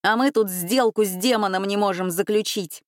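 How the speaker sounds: usual speaking voice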